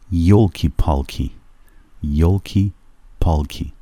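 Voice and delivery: playful exclamation; a joking 'oh dear'; mock dismay. Shown as a demonstration. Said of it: "به شوخی بگن که ای داد بیداد".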